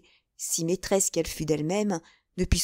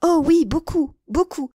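high, louder, emphatic yes; keen, higher-pitched insistence; eager; 7 semitones higher, 5 dB louder than usual. Acted. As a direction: confirm with bubbling enthusiasm. Novice eagerly confirms knowing him.

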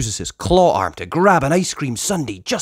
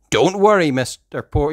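brisk, upbeat reassurance; confident boy leader; 4 semitones higher, 4 dB louder than usual. Acted. Ryder reassures Mister Porter, upbeat and higher. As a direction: cut yourself off, eager. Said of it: "he tells Mister Porter".

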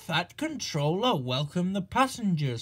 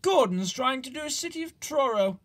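higher, quicker, amused; chuckling; 7 semitones higher, faster than usual. A narrator's reading. Edward chuckling to Duck about Gordon, high and quick. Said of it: "Edward chuckled".

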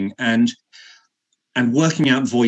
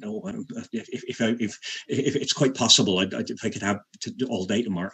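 gentle Cornish Cratchit; 5 dB quieter than usual. Shown as a demonstration. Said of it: "he sort of had this Cornish lilt".

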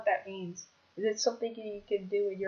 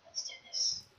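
very soft and small; hushed readiness; 9 dB quieter than usual. Real, not acted. Gamer psyching himself up at round start, hushed. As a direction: say it barely above a breath.

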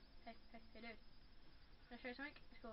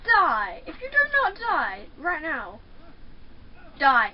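loud shouted "die"; yelled command; 8 dB louder than usual. Pretend. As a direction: bark it at the enemy. Yelling at enemy.

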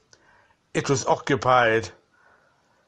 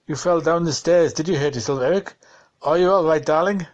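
worried wife; 3 semitones higher than usual. Acted. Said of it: "She was crying as she called to him".

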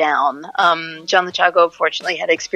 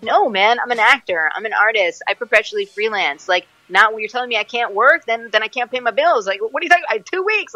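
freaked-out rant; 3 semitones higher than usual. Retold or imitated. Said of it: "I freaked out".

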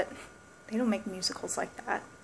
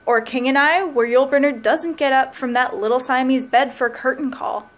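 building comic rant. Acted. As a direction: pile it on with mounting glee. Escalating fantasy of musicals ending.

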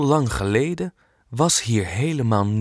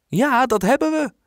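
much higher and louder eager yes; excited call; 14 semitones higher, 4 dB louder than usual. Acted. Girl answering the painter eagerly, high loud call. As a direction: shout it out with glee. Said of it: "roept Kolletje".

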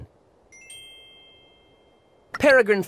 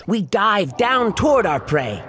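excited; 3 semitones higher than usual. Acted. Falcon describes its dive.

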